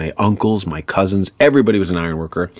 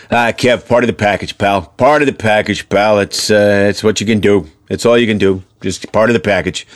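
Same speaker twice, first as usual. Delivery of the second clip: lightly voiced Irish dad; a hint of dad's Irish accent; father impression. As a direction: shrug it off like a stoic Irish father. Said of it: "you do a wonderful impression of your father".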